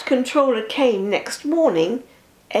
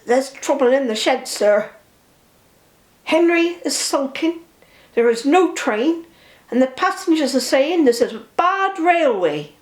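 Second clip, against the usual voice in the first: higher, anxious report to the boss; worried station master; 5 semitones higher, 3 dB louder than usual. Acted. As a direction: hurry the bad news out with a touch of worry. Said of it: "looking worried".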